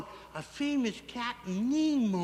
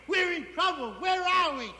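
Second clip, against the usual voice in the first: high, pressing acted question; worried urgency; 7 semitones higher than usual. Captain asks his wife their position in trouble, worried urgency. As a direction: demand the position with rising alarm.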